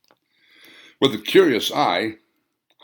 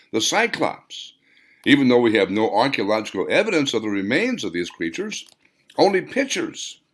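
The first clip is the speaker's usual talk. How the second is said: higher, lecturing voice, droning on; Voltarion lecturing; 5 semitones higher, 3 dB louder than usual. Acted. Voltarion lecturing Hans about ancient civilizations, higher pedantic voice. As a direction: hold forth like a know-it-all scholar.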